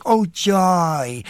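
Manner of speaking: lightly voiced Irish priest, high and bright exclaim; a hint of a giddy Irish priest. Actor recalling his priest role, mock joyful cry. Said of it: "I did it Irish".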